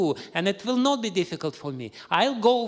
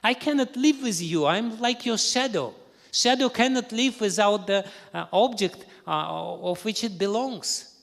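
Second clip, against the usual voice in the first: high, loud indignant outburst; angry wife; 9 semitones higher, 8 dB louder than usual. Acted. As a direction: rage at him, pitch way up. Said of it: "she became very angry".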